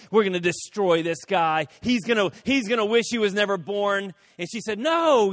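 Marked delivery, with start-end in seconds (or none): 0.1-4.1 louder and louder, vengeful; retelling a lawyer's rising revenge threat; building mock fury. Lawyer boasting revenge plan. 4.8-5.3 sharp, high, loud no; secretary halting her boss; firm no. Retold or imitated. Secretary firmly stops him.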